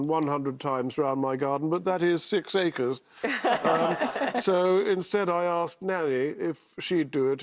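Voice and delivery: lightly voiced, slow, languid aristocrat; unhurried upper-class drawl, a hint of the minister; Jacob Rees-Mogg impression. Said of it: "I don't know if actually Jacob Rees-Mogg".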